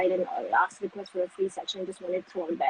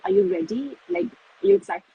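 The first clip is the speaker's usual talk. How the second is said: excited retold question; 3 semitones higher, 6 dB louder than usual. Excited friend texting the speaker before the interview, eagerly. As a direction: quote an excited friend, lifting on the second question.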